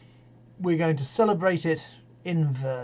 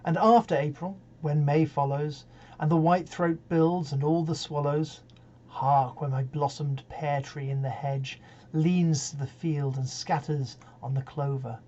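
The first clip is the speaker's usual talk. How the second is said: measured reading that opens strongly and softens; poetry recitation. Acted. Reader giving Browning's Home Thoughts from Abroad, measured recitation. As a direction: recite wistful verse with unhurried pauses. Reads a poem aloud.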